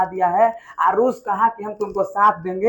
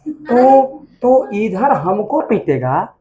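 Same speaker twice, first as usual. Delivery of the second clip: mock angry challenge; 3 dB louder, slower than usual. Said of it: "तूने कहा तो".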